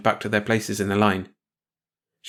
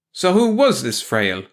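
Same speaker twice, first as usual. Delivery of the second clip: heavy; 4 semitones higher, 4 dB louder, slower than usual. Acted. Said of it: "Kosolowski asked heavily".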